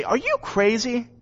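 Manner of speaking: mock disbelief at a friend; lightly voiced exasperated servant; are you out of your mind; incredulous. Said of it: "my reaction ... would be look over and say".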